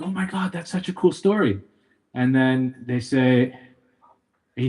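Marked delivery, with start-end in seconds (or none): 0.0-1.6 higher-pitched, lightly acted amazement; impressed listeners. Pub crowd reacting to the traveler's story, mildly excited. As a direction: play the wowed listener, pitch lifted.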